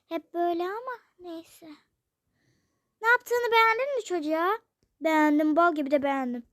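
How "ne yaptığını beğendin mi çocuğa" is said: angry reproach. Acted. Mother scolds father.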